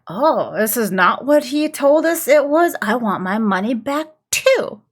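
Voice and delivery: lightly voiced indignant crowd; mock a grumbling crowd member; complaining crowd. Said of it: "the crowd is like".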